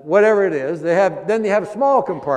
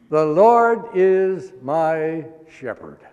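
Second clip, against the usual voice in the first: slow scripture reading; slower than usual. Acted. Pastor reads verse slowly.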